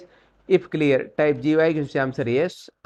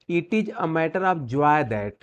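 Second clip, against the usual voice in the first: slow dictation; much slower than usual. Shown as a demonstration. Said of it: "assertive बनाते समय क्या करते हैं?".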